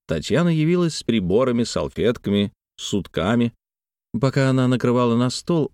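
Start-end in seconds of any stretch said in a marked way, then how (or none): none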